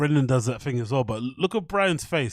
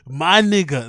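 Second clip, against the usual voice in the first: voicing Brian; 7 dB louder, slower than usual. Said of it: "That's what he wants to say".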